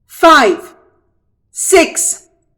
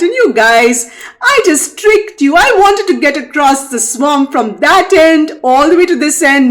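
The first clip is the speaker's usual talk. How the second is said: higher, teasing brag; gloating trickster; 3 semitones higher than usual. Acted. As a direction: taunt the alligators. Rabbit gloats over trick.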